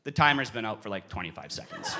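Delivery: low voice, dropping to very soft; deadpan reply. Retold or imitated. Partner to the yelling player after time is up, quiet deadpan. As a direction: answer the yelling with quiet understatement.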